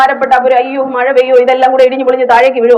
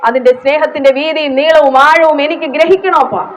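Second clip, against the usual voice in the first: a heartfelt demonstrated prayer, higher; fervent prayer; 3 semitones higher than usual. Shown as a demonstration. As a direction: pray it earnestly to the Father. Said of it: "ഓരോ വാക്കും പറയുമ്പോ".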